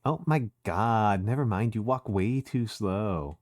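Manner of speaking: put-on valley girl Susie telling Chris to lead. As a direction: play a sassy Valley Girl bossing a friend. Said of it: "Valley Girl Susie's really funny".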